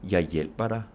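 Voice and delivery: "hjælper" stressed, "Jeg" and "dig" unstressed; weight only the verb "hjælper", keep "Jeg" and "dig" light. Shown as a demonstration. Teacher showing unstressed pronouns, stress only on "hjælper". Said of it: "you do have the stress on the verb".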